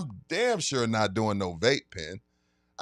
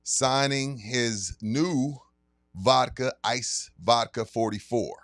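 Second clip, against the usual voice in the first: sponsor ad read. Acted. Announcing the liquor store signing to listeners, hyped ad read. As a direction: pitch the event like a radio spot.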